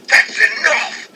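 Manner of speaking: put-on failed British accent; mock British accent. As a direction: attempt at Regal's English accent, badly. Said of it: "I can't do an accent".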